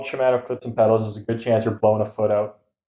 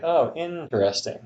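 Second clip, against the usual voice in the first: INTERESTING drawn out and higher, "innn-teresting"; slow interesting; 5 semitones higher, 4 dB quieter, slower than usual. Shown as a demonstration. Host shows talking slow to somebody, drawn out. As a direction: slowly stretch the first syllable of INTERESTING. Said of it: "if I was just talking slow to somebody".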